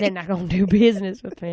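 lightly echoed Southern twang; Southern accent. Retold or imitated. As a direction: repeat it imitating a Southern accent. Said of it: "had to drop his Southern accent".

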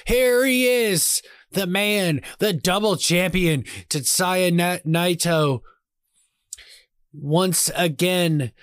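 slow, dramatic ring announcer; play-by-play announcer. Acted. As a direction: call the entrance like a wrestling commentator.

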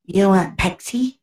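slow, high-pitched mock Chinese accent. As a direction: imitate a Chinese server taking drink orders, high and drawn out. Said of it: "they come up and talk to you, and it's like".

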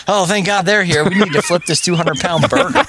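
put-on a cafe strongman in a jokey Australian accent, excited; mock Australian accent. Podcast host retelling the burger story in mock Australian accent. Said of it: "That's my Australian burly man accent".

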